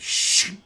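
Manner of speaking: loud "shh" hiss before a blast; sudden loud sibilant burst; imitated trap noise. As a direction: mimic a rushing hiss. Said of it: "you hear, uh, this kind of".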